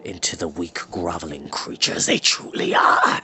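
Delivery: a hint of a low, sneering old wizard; cold scorn of a wicked wizard, lightly voiced; lightly voiced wizard Morda. Wizard gloating to his captives, lightly voiced sneer.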